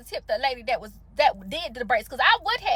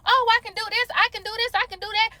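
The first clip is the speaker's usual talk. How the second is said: higher, sing-song mock of a stylist promising anything; mocking overeager stylist; 6 semitones higher than usual. Mocking salon stylists who overpromise, in a higher sing-song voice. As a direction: parody a stylist who says yes to everything.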